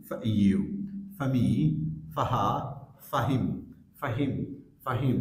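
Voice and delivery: reduced for as /fə/ glued to the pronoun, as in "ফাহিম"; weak form, linked. Shown as a demonstration. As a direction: say "ফামি" like one word. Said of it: "উইক সাউন্ডে sound আসছে". ("ফাহিম" এক শব্দের মতো জুড়ে)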